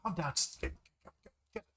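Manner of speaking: high, muffled voice behind a door; muffled, high-pitched fussing heard from outside. Acted. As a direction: talk as if heard through a door. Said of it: "like, muffled voice".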